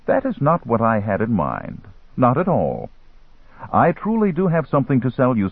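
lightly voiced, composed merchant, pitch lifted on key phrases; a hint of a bargaining dealer; caftan dealer. Dealer assures armed Lindsay he only wants to sell, lightly voiced merchant.

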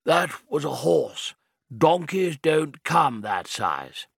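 lightly voiced firm old man; a hint of a steady, elderly man. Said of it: "in a firm, elderly voice".

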